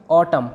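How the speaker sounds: ऑटम ending on M; silent final N. Shown as a demonstration. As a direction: close ऑटम on M, with no N after it. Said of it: "इसमें एन की कोई sound नहीं आएगी".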